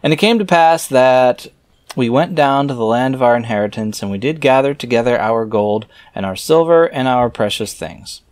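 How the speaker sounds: scripture reading. Acted. Reader reciting scripture verses aloud in a solemn reading voice. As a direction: read the old verses out with solemn weight.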